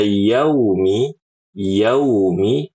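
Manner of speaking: yaumi with the mouth opened too wide; wrong wide yaumi. Shown as a demonstration. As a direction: gape on yaumi. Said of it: "Ini salah".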